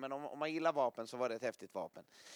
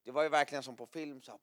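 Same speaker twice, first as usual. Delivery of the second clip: ordinary delivery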